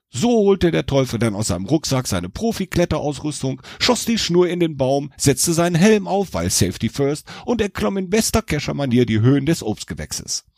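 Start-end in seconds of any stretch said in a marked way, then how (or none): none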